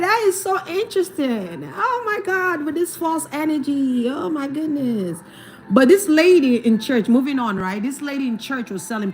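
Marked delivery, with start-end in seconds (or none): 0.0-5.2 sarcastic "so interesting", higher; reacting to false energy, mock fascinated; mock amazement. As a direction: feign fascination with a knowing laugh. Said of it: "I'm like".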